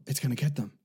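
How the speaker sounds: small gasp, then a mildly alarmed aside; gasping moviegoer. Retold or imitated. Retelling the woman's reaction to the film, mock alarm. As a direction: imitate a viewer fretting for the characters. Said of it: "I'm gonna do this quietly".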